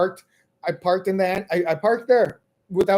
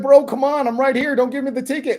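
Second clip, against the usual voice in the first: pleading with the ranger; 5 semitones higher than usual. Retold or imitated. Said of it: "I was still like".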